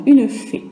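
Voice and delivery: «fée» with a rising pitch; rising tune. Shown as a demonstration. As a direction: make «fée» go up. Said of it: "ça monte".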